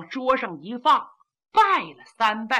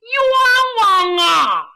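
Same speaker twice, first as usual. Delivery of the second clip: very slow, loud, much higher crying shout; drawn-out wail of injustice; 8 semitones higher, 5 dB louder, much slower than usual. A narrator's reading. Kou Zhun, bound outside, wailing to be heard by the returning generals. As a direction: stretch the cry out at the top of your voice. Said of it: "扯着嗓子喊".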